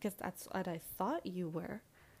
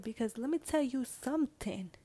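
friend's blunt lecture. Retold or imitated. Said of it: "Because she said".

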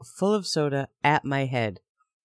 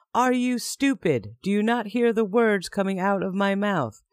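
cold contemptuous snap, higher; snapping; 5 semitones higher, 3 dB louder than usual. Retold or imitated. Mike snapping at his girlfriend, cold and contemptuous. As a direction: snap at her like she's stupid. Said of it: "he snapped in a tone".

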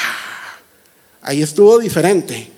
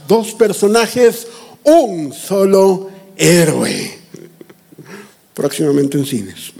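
movie trailer voice; 2 semitones lower than usual. Pretend. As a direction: announce it like a film trailer. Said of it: "déjame presentarte el tráiler".

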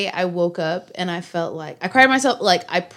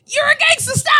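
mock self-scolding; 4 dB louder than usual. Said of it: "I'm just like".

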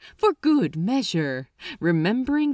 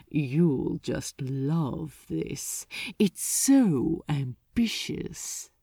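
gloating demon; 4 semitones lower, slower than usual. Acted. Archdemon relishing Crowley's assignment.

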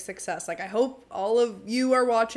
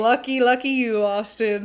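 loud, teasing congratulations; playful envy; 2 semitones higher, 7 dB louder than usual. Acted. Co-host cheering the rumored fling with Austin, loud playful envy. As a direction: gush at the absent man, louder. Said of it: "I'm like".

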